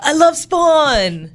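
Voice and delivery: put-on high, slow American accent; big drawn-out American voice. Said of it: "I was trying to do an American accent as well".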